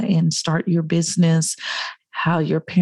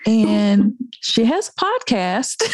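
laughing; 4 semitones higher than usual. Real, not acted. Laughing while quoting mom.

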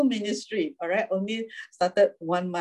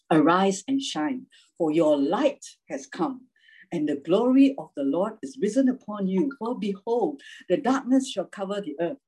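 scripture reading. Acted. Reads Isaiah sixty aloud.

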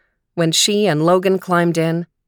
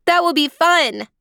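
put-on high, eager little-girl voice; a thrilled three-year-old; excited child; 11 semitones higher than usual. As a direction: bubble over with delight. Leanie thrilled at the plan.

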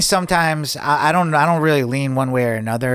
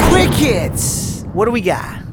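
excited announcer; 7 semitones higher, slower than usual. Real, not acted. Announcing a show segment.

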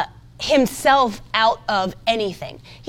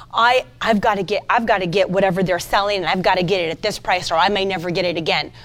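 spirit of fear; 5 semitones lower, faster than usual. Acted. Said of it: "that's a spirit of fear".

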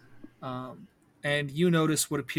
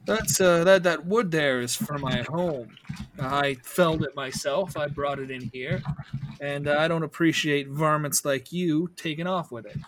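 angry gallus; 4 dB louder than usual. Acted. GM voices angry gallus NPC.

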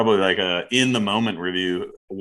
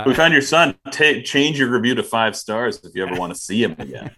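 shaky ransom note reading; 4 dB louder than usual. Pretend. Ransom demand as pyramid manager.

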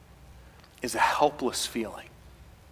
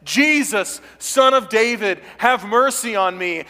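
desperate cry; 7 semitones higher, 6 dB louder than usual. Acted. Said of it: "hear the echoes of blind Bartimaeus".

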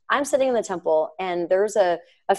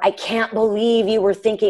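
mock reproach, pitch raised; raised, disapproving imitation; judgmental; 4 semitones higher than usual. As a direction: scold in disbelief, lightly acted. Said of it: "it wasn't a judgmental".

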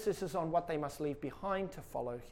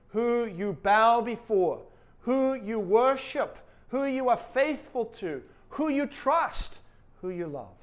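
slow rising litany; 4 semitones higher, 5 dB louder, slower than usual. Real, not acted. Preacher climbing through the list.

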